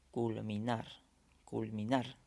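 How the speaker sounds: "culminar" twice, stressed on the last syllable, nar; stress on final syllable. Shown as a demonstration. Teacher showing where the voice is strongest, stress on final "nar" of "culminar". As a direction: land the force on "nar" in "culminar". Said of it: "la mayor fuerza de voz está al final".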